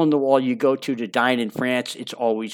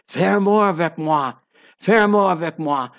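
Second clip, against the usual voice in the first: higher, lilting French girl's voice, imitated; sing-songy French voice; 4 semitones higher, 3 dB louder than usual. Girlfriend calling him each morning, in a higher sing-song French lilt. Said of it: "in her beautiful sing-songy French voice".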